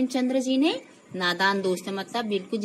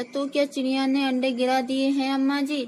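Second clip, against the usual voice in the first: higher-pitched, mildly anxious question; fearful; 6 semitones higher, 4 dB louder than usual. A narrator's reading. Little girl asks mother about the eggs, mildly fearful. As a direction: ask with a touch of fear. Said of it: "Shyama ने डरते डरते पूछा".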